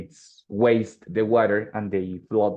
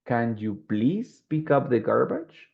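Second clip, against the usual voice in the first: polite request. Shown as a demonstration.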